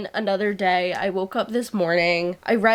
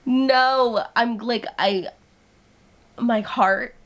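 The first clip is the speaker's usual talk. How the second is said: flustered gushing; slower than usual. Real, not acted. Overwhelmed by the book.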